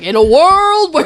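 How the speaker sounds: loud, slow, hammed-up narrator; Rod Serling. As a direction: intone it grandly while laughing. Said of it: "an accurate impression of Rod Serling".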